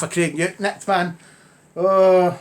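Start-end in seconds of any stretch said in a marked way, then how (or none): 1.7-2.4 shocked oh. Real, not acted. Outraged at estate replacing scheme.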